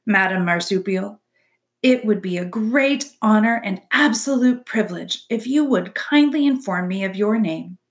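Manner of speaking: stiff, overly polite robot friendliness; a touch of awkward courtesy; friendliest voice. Acted. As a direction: try hard to sound friendly and formal. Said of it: "spoke her next words in the friendliest voice she could muster".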